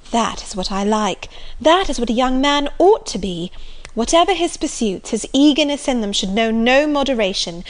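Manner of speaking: lightly voiced enthusiastic young lady; enthusiastic Marianne. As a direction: gush about him like a romantic girl.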